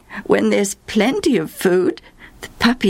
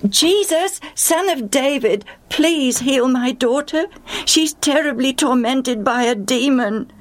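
high, urgent calling out; 9 semitones higher than usual. Acted. Mother calling to Jesus for her tormented daughter, high urgent call. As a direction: call to him across the crowd. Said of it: "in her excitement she began to call out".

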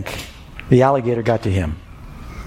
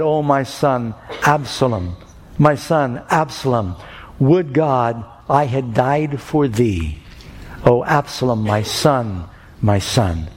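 grieving lament; slower than usual. Retold or imitated. King David mourning his son Absalom, slow and mournful. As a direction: let the grief drag each word.

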